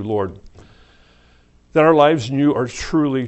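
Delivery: earnest closing prayer to God. Acted. Closes the service in prayer.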